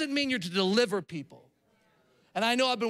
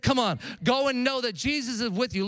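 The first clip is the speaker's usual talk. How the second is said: mock shout. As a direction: push her to go, firmly. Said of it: "And so I said".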